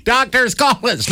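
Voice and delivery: mock plea. Mock plea echoing earlier line.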